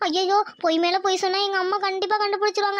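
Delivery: fretful, tearful whimper; acted schoolgirl sobbing; crying. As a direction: wail helplessly about being found out. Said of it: "அழுவாத, அழுவாத".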